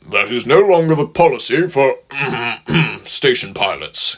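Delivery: words broken by a throat clear. Acted. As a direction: struggle through an awkward cough. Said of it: "Gordon said with difficulty".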